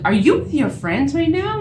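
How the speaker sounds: high, loud accusing question; retold yelling. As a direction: re-enact yelling at a caught-out liar. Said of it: "I yelled at him".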